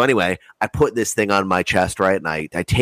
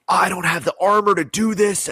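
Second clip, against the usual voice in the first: high-pitched frustrated complaint, pitched well up; frustrated outburst; 11 semitones higher than usual. Retold or imitated. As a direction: vent it like a cornered gamer, voice jumping up. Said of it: "and I'm fucking pissed off".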